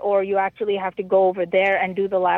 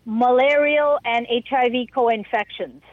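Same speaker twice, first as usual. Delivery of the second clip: slower, measured repeat on request; 2 semitones higher than usual. Real, not acted. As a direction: say it slowly for the listener. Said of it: "say that again slowly".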